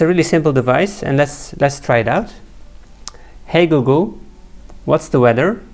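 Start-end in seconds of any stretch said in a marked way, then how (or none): 3.5-5.6 clear, louder command to a smart speaker; talking to voice assistant. Real, not acted. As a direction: speak up so the device hears you.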